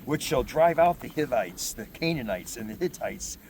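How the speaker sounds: proclaiming scripture to the congregation; scripture reading. Acted. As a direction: read the passage out like from the pulpit. Reads scripture aloud.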